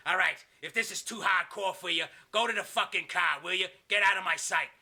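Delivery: a touch of bullying impatience; Kevin Sullivan scolding. Acted. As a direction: dismiss an underling with mock anger. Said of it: "Kevin Sullivan goes".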